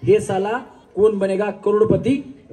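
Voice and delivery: slow, drawn-out show-title call; dialogue demo. Shown as a demonstration. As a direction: demonstrate the line word by word, stretched. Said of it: "फक्त dialogue". (सावकाश, ताणून डायलॉगचं प्रात्यक्षिक)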